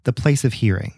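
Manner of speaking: measured storyteller's read with pauses; scripted tale, deliberately paced; story narration. A narrator's reading. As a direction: narrate an old local legend, phrase by phrase. Reads the legend aloud.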